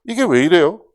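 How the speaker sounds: acted confrontational objection; defiant challenge. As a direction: talk back boldly to a superior. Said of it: "대들던 사람이었는데".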